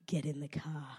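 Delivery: hushed, serious order; low urgent command in a whisper. Retold or imitated. Serious uncle orders her in.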